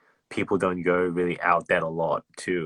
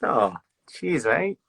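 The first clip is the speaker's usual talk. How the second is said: cheery thanks; 6 semitones higher, slower than usual. Retold or imitated. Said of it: "I'm like".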